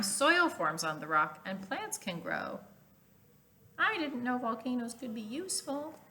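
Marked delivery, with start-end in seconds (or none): 3.8-6.0 put-on kid voice. Kid character in story.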